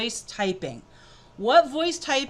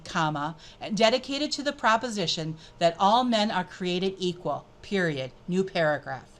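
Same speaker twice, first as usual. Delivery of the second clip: dictation with spoken punctuation; 2 semitones lower than usual. Shown as a demonstration. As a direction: read for voice typing and call out each comma. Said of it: "notice I'm gonna add punctuation this time".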